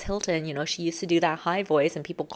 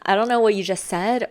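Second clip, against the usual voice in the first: higher-pitched playful jab; sharp teasing; 5 semitones higher than usual. Acted. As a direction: tease a friend sharply. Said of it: "we might even tease them a bit".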